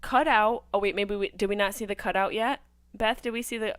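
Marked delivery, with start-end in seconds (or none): 0.0-0.6 high, loud, offhand mock shrug; mocking nonchalance. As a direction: play it like nothing's wrong at all. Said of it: "We're all just like".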